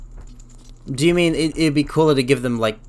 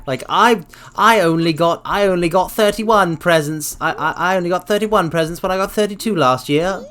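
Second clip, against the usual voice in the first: put-on spoiled child; 4 semitones higher than usual. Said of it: "I'm going to have a tantrum now".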